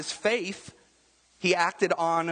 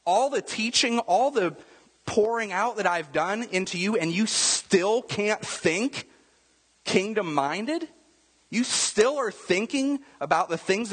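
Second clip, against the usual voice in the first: frustrated rant; 3 semitones higher than usual. Retold or imitated. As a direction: scold a student who never learns. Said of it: "I would be really frustrated".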